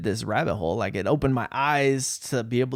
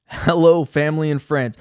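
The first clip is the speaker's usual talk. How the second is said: louder, formal letter greeting; reading a letter aloud; 4 semitones higher, 7 dB louder than usual. Shown as a demonstration. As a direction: announce the greeting like opening a letter. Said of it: "let me read this".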